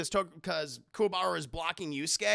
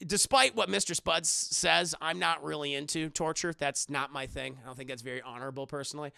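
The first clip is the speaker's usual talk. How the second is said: lower, understated delivery of a cool fighter; low-pitched, matter-of-fact disapproval; low, measured villain; 6 semitones lower than usual. Acted. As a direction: voice a composed villain, low and restrained. Voicing calm younger Toguro brother.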